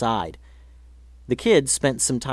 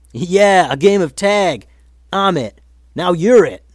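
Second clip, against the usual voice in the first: pushy boast; 7 semitones higher, 8 dB louder than usual. Acted. Rough bully joins tag.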